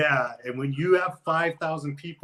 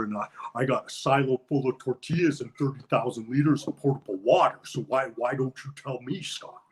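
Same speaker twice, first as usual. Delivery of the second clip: Jesse Ventura impression. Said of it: "the Jesse the Body Ventura one".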